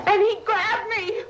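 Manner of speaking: high, frantic voice breaking with fear; reliving the attack in terror; rising panic. Real, not acted. Terrified retelling of attack.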